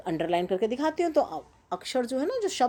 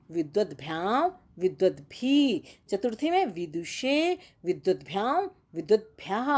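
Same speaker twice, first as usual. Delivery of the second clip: careful recitation. Shown as a demonstration. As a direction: recite the declension table syllable by syllable for students. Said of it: "हम आपको एक बार उच्चारण करना सिखा देते हैं".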